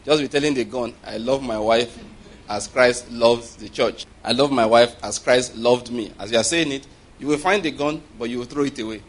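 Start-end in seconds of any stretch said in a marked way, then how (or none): 1.0-6.1 slow, deliberate confession of love; measured declaration. Shown as a demonstration. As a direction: declare it word by word, unhurried. Models words told to the gun.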